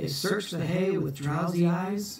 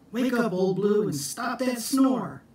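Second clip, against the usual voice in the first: raised, higher wake-up call; 6 semitones higher than usual. Acted. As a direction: call him awake, higher and brighter. Jack calls to the dog.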